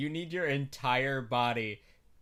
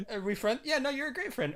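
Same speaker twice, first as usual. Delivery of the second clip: laughing; 10 semitones higher, faster than usual. Retold or imitated. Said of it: "just if you, like".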